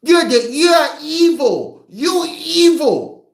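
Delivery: high, drawn-out accusing cry; mock accusation. Child accusing the mother, high mock outrage. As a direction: stretch it out, high and hammed-up.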